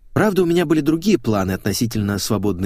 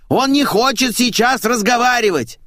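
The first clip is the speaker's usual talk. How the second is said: high loud call; yelled name; 14 semitones higher, 4 dB louder than usual. Acted. Maid yelling the caller's name, loud call. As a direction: shout the name down the hall. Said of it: "заорала Ленка".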